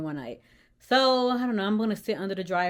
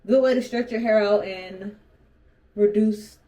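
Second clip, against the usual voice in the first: retainer in, repeated more carefully; wearing a retainer; 6 dB louder than usual. Real, not acted. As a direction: say it around a dental retainer. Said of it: "I'm talking where I have my retainers in".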